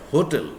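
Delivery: "hotel" with a clear H at the start; sounded H. Shown as a demonstration. Teacher showing one pronunciation, "hotel" with H sounded. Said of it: "if we pronounce like".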